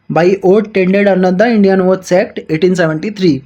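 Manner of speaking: slow, deliberate reading of the statute; measured textbook read-aloud; slow legal reading. Acted. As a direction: dictate each clause slowly to students. Reads the legal text aloud.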